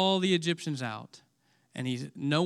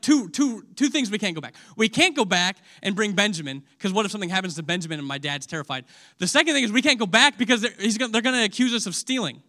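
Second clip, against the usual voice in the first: worried brothers; 3 semitones higher, 4 dB louder, faster than usual. Retold or imitated. Brothers panic about returning.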